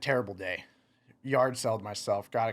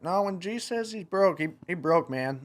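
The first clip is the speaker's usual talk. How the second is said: mock emphatic friend; 8 semitones higher, 4 dB louder than usual. Friend's quip, retold.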